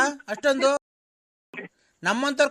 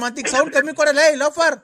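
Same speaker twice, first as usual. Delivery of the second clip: louder, heated order with an insult; angry yell; 3 semitones higher, 4 dB louder than usual. Acted. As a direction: shout him down in anger. Angry caller in phone quarrel. (ಕೋಪದಿಂದ ಗದರಿಸುವುದು)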